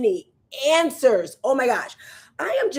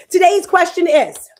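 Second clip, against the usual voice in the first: big announcer voice, pitched up; loud announcement; 8 semitones higher, 9 dB louder than usual. Real, not acted. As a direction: belt out the segment title. Announcing the show segment.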